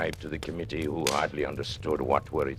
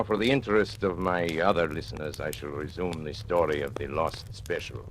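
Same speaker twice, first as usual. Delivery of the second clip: ordinary talk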